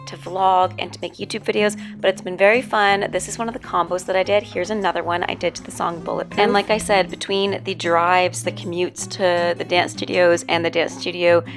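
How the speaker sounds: hoarse, strained voiceover voice; losing her voice, rough and worn; voice giving out. Real, not acted. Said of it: "which is the reason that I sound like this".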